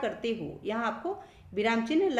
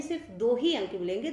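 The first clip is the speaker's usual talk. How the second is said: ही pressed, with a quick run over the rest of the line; stress on do hi; faster than usual. Shown as a demonstration. Teacher to class, stressing ही, quick. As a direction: push ही to say two and no more.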